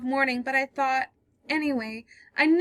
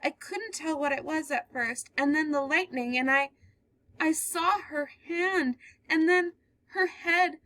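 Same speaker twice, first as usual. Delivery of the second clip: higher, slowing as the horror sinks in; growing dread; 8 semitones higher than usual. Acted. Girl describing the man dragging a body, in dread. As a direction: relive it as you tell it. Girl tells her story.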